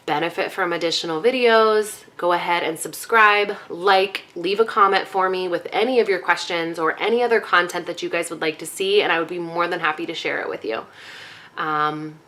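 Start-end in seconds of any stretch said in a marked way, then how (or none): 4.3-10.9 breathless, winded talking; out of breath. Real, not acted. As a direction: talk while short of breath. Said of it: "I'm sorry I'm so out of breath".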